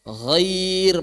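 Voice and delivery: GHAIR long drawn, with a light final r; thin r. Shown as a demonstration. Teacher gives a second example, thin r. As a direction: hold "Ghair", then a thin r. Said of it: "maka dibaca tipis".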